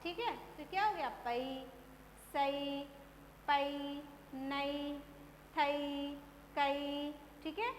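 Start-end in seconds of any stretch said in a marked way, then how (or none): 1.2-7.1 पई, सई, नई each held evenly with a pause after; level drill-like syllables पई, सई, नई with ai glide; ai syllable demo. Shown as a demonstration. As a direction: sound out पई, सई, थई, कई one by one. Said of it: "इस तरीके से आपका उच्चारण करना है".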